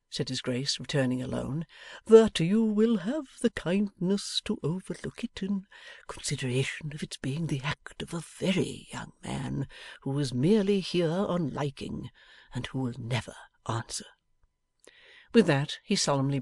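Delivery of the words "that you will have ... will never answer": lightly voiced Archbishop, half whispered; a discreet formal plea in near whisper; hushed Archbishop. Archbishop apologises to Bella.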